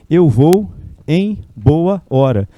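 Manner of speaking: eu vou em boa hora, slow, every word apart; slow demo. Shown as a demonstration. Teacher showing how embora formed, slow. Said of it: "Ela embola umas palavrinhas".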